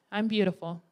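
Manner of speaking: mumbled softly, no belief behind it; unconvincing. Shown as a demonstration. Woman in the mirror, unconvincing, half-hearted. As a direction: say it like you don't buy it. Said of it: "Yeah, you totally convinced it".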